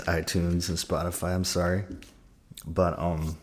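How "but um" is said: while sipping a drink. Real, not acted. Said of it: "sorry, I'm drinking water".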